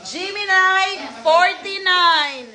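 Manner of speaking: sing-out, drawn-out ball calls; measured caller's cadence with stretched numbers; bingo caller. Real, not acted. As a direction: announce each letter and number to the room.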